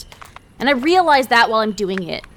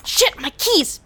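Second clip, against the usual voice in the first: frustrated shout; 9 semitones higher than usual. Acted. Dropped keys while dragged.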